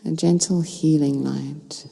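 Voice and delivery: calm meditation guide with long pauses between phrases; unhurried, soothing guidance, phrase by phrase; guided meditation. Real, not acted. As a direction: lead listeners gently into stillness, leaving space to breathe.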